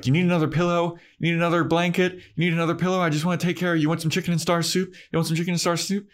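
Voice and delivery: high, fussy mock mother voice; doting mom. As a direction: coo over her like a smothering mom. Mom fussing over Buffy in bed.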